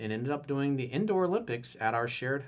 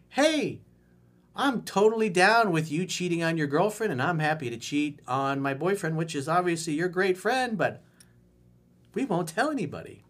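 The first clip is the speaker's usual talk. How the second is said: put-on girl voice; 4 semitones higher than usual. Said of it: "Let me get my girl voice ready".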